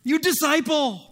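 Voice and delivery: high, loud scolding of Mark; scolding father. Retold or imitated. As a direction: call Mark out sharply, like a stern father. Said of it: "good father was like".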